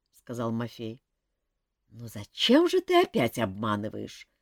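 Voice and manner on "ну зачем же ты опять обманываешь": reproaching. Acted. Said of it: "упрекнул его эльф".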